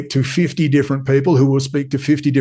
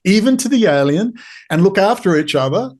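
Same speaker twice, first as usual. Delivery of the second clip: higher-pitched exasperated God, mock scolding; voicing God; 6 semitones higher than usual. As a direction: play God fed up with his people. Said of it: "God says".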